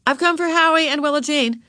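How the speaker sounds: high-pitched announcing voice; high-voiced lady at the door; visiting mother. A narrator's reading.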